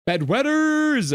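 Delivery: high, loud, slow mocking yell; gleeful shout. Real, not acted. Streamer taunting chat troll, drawn-out mocking shout. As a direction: crow the word back at the troll.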